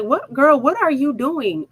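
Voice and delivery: high-pitched, imitated disbelief; mock bewilderment. Husband to wife with a bat, mock bewilderment.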